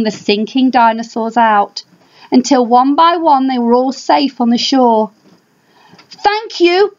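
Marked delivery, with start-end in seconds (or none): 6.1-7.0 shouted thanks. Acted. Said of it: "Father Dinosaur shouted".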